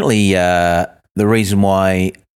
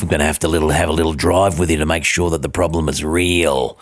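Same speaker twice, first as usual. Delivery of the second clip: a touch lower, sinister mechanic; lightly voiced threatening mechanic; mock menacing mechanic; 5 semitones lower than usual. Comic imagining the mechanic as a hitman, mildly low and sinister. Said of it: "Sounded like he was gonna bump me off".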